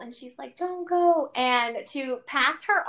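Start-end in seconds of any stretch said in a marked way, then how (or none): 0.6-1.3 higher, small pleading voice; imitated crying child. Crying four-year-old at the goodbye, lightly imitated. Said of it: "crying little four-year-old".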